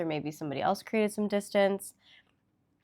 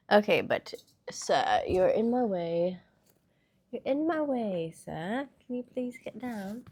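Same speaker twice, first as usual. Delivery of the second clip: put-on British accent; 2 semitones higher than usual. Asking a visitor in the way to get down, British accent. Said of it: "getting into this British accent".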